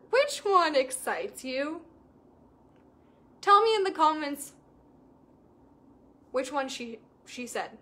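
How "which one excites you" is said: slow, drawn-out ask with a rise; slow coaching question; slow emphatic question. Shown as a demonstration. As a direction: lean into every word, slowly. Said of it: "I asked her".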